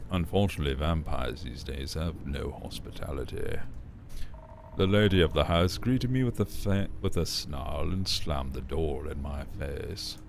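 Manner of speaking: lightly voiced suave villain with vocal fry; Scar voice. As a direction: purr it like a smug lion villain. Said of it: "I'm thinking Scar from Lion King".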